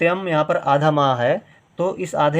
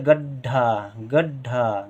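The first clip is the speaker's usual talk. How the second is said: गड्ढा slowly, short ग and long ढा; long final vowel; much slower than usual. Shown as a demonstration. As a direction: hold the aa at the end of गड्ढा. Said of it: "फिर ढा ज़्यादा देर के लिए".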